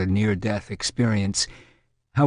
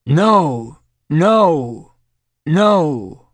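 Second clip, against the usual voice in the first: loud, high bellow of refusal; 5 semitones higher, 7 dB louder, much slower than usual. A narrator's reading. Terrified volunteer during a drug session, bellowing. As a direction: bellow it out, pitched well up. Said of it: "Then she bellowed".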